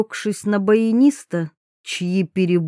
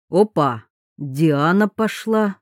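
slightly surprised. Acted. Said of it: "с долей изумления в голосе".

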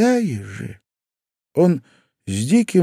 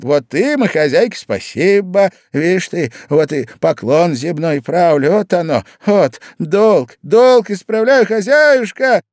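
высоко, с нарастающим криком к концу; юродивый бьёт поклон хозяйке; шутовской поклон; 6 semitones higher, 5 dB louder than usual. Acted. Зимовейкин кланяется хозяйке в землю. (шут кланяется хозяйке, всё громче)

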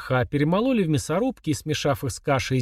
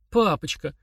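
trembling voice; 3 semitones higher than usual. Acted. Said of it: "дрожащим голосом заговорил он".

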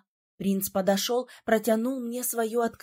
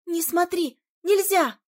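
higher, urgent hushed plea; urgent warning; 6 semitones higher than usual. A narrator's reading. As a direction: pull her friend back in alarm. Fiona urgently warns. (испуганно, настойчиво)

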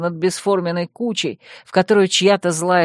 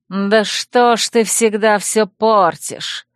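displeased; 3 semitones higher, slower than usual. Acted. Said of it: "недовольно отозвался урод".

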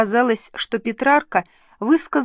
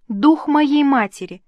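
higher, louder, solemn call to her mother's spirit; solemn invocation; 5 semitones higher, 4 dB louder than usual. A narrator's reading. Elizabeth calls on her dead mother's spirit, solemnly. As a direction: intone it like a prayer. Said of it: "торжественно произнесла она".

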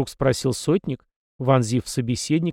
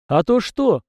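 laughing challenge; 9 semitones higher, 4 dB louder, slower than usual. A narrator's reading. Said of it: "рассмеялся Беломир".

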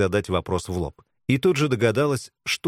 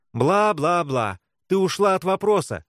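jeering higher voice, drawn-out blah-blah; mocking; 8 semitones higher than usual. A narrator's reading. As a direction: taunt her with it. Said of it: "с издёвкой произнесла Вика". (с издёвкой)

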